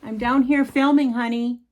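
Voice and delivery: loud high call to another room; yelling. Real, not acted. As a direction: call out to her son. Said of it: "I have to yell at my little boy".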